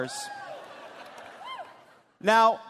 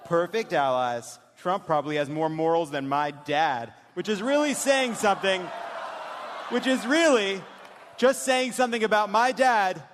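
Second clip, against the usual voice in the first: dramatic reading. Acted. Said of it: "when we do this dramatic reading".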